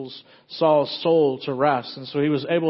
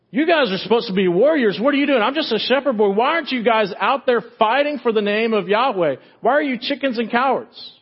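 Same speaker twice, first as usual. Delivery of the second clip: put-on indignant young challenger; 6 semitones higher than usual. David scolding the warriors for hiding, indignant and raised. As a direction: rebuke them, incredulous and fired up.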